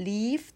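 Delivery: "leave" with the ee held a little long; long vowel. Shown as a demonstration. Teacher showing how to read "leave", vowel drawn out. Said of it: "อ่านออกเสียงยาวๆนิดนึงนะคะ".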